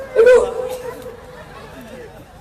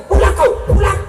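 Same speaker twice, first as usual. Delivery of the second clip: much higher, louder shrill-free mock wife's order; nagging wife; 9 semitones higher, 5 dB louder than usual. Wife calling husband home, much higher and louder mock order.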